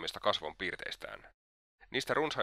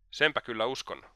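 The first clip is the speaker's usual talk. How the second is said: a light, half-raised exclamation; mild exclamation; 2 semitones higher than usual. Acted. Raskolnikov answering Svidrigailov as he rises, a mild exclamation. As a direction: toss it out as a mild outburst. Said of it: "huudahti Raskolnikov".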